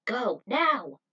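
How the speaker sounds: loud sharp go; shouted command. Acted. Tyler gives Cheetah the signal, shouted. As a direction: fire the signal to run.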